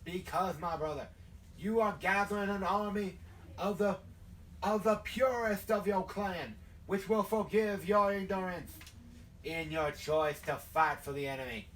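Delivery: measured southern sermon to a brother; southern hellfire preacher. Acted. Preacher telling a recruit why he was chosen, southern sermonizing. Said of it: "like, the hellfire and brimstone thing".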